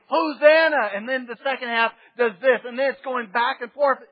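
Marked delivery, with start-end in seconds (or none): 0.1-0.9 loud, high ecstatic cry; joyful shouting. Retold or imitated. Crowd greeting the king, loud joyful shouting. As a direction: shout it at the top of your lungs. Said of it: "front half of the crowd saying".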